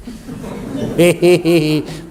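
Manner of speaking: long, drawn-out giggle; laugh. Real, not acted. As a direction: let out a drawn-out teasing giggle. Teasing naughty back-row listeners.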